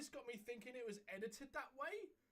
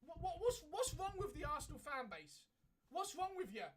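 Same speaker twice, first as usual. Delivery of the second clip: laughing rant; 7 semitones higher, 5 dB louder than usual. Real, not acted. Ranting at fans, laughing.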